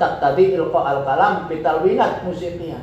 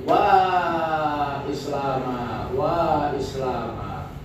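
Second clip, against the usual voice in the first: plaintive lament; much slower than usual. Shown as a demonstration. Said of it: "Intonasinya tinggi karena mengadu, merengek-rengek".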